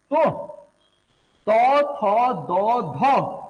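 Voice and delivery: तो, थो, दो, धो drawn out slowly, tongue on the teeth; dental sounds. Shown as a demonstration. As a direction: demonstrate slow dental तो, थो, दो, धो. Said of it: "ये तो दंत है".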